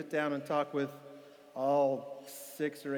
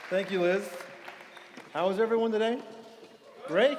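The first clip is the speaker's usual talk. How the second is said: calling out; 5 semitones higher, 4 dB louder than usual. Real, not acted. Greeting the audience from stage.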